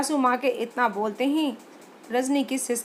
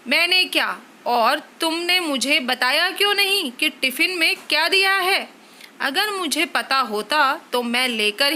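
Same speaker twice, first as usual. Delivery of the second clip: mildly raised scolding husband; angry scolding; 3 dB louder than usual. Acted. Husband complaining to wife about tiffin, scolding. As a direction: scold her for the oily food.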